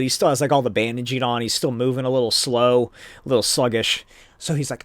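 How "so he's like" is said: ordinary delivery, nothing marked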